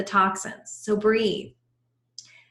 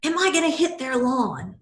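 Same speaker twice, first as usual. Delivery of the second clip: imitating angry husband; 5 semitones higher than usual. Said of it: "he very angrily said".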